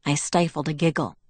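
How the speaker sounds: plain reading voice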